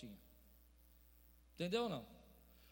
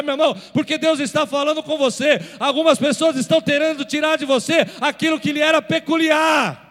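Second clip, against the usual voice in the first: shouted, high preaching climax; roaring pulpit call to stand tall; full-force preaching; 7 semitones higher, 20 dB louder than usual. Acted. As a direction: preach it out at the top of your voice. Preacher calls congregation to stand.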